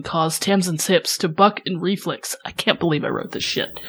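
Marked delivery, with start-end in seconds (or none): 2.4-3.9 breaking up with laughter mid-read; can't hold in the laugh; cracking up at her own writing. Real, not acted. Author breaks off reading own scene.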